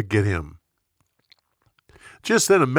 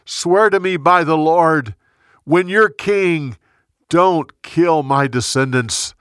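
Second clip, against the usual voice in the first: mild tearful plea, higher and louder; a touch of a king overcome, begging David; broken down crying; 4 semitones higher, 5 dB louder than usual. Acted. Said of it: "he broke down and cried".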